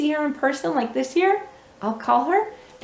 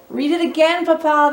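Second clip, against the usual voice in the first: put-on begging children; 4 semitones higher, 4 dB louder than usual. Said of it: "they begged".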